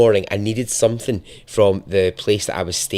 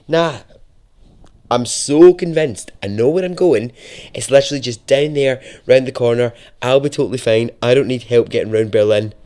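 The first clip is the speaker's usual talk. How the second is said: cocky overconfidence; 4 dB louder than usual. Retold or imitated. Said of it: "I was like".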